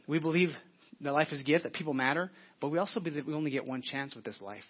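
ordinary delivery

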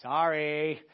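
low, dragged-out mock apology with no heart in it; half-hearted sorry. Kid forced to apologize to a sibling, mock insincere sorry. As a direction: imitate a kid mumbling sorry just to get it over with. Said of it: "they just go through the motions".

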